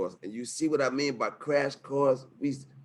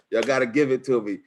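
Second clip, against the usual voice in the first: hype shout-out; 4 semitones higher, 5 dB louder than usual. Real, not acted. Hyping up the webinar audience.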